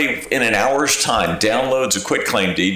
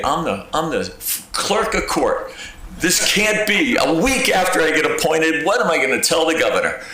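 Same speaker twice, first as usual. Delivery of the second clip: high, tense replay of a panicked thought; panicked inner voice; 7 semitones higher than usual. Retold or imitated. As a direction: relive the moment you thought you'd be arrested. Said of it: "I was shaking".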